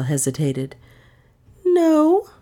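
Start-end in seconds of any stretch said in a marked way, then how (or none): 1.6-2.3 a much higher, louder "No."; Dale's denial. Acted. Dale denying to the detective, high and loud. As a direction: deny it quickly. Dale hesitates then denies.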